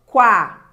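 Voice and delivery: "Quá" loud, gliding from a weak u onto a strong a; rising diphthong demo. Shown as a demonstration. Teacher showing students how the diphthong grows, loud "Quá" swelling onto the a. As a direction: punch out "Quá", weight landing on the a. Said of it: "esse ditongo cresce. Olha, pronuncie só".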